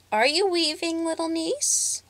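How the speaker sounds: high witch voice asking sweetly; sugary high crone voice; high-pitched voice. Acted. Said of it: "she asked in a high-pitched voice".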